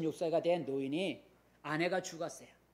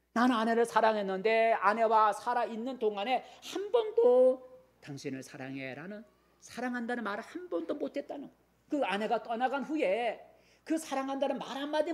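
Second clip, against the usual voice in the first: rising preaching fervor; 6 semitones higher, 4 dB louder than usual. Real, not acted. Preaching the old man's regret.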